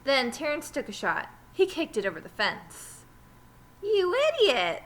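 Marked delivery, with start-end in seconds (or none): 3.8-4.8 angry insult. Acted. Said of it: "said Damien".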